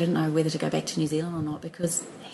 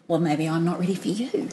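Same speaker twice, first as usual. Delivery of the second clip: coy brush-off. Retold or imitated. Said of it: "I did the".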